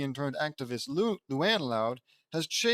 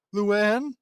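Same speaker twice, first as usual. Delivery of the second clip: high, loud shocked name; stunned call; 7 semitones higher, 8 dB louder than usual. Acted. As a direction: gasp out her name at the screen. Shocked at TV news.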